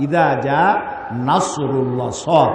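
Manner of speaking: slow নাসরুল্লাহ, then the letter সদ named; careful, drawn-out demo of সদ in নাসরুল্লাহ; correct Arabic sad. Shown as a demonstration. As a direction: dwell on the heavy s of নাসরুল্লাহ. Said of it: "সদের উচ্চারণ আলাদা".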